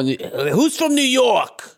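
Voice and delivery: high, slow, drawn-out mock rally call; imitating Santos. Friend imitating Santos asking the rally crowd. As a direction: stretch it like a hammy politician. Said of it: "A little bit more".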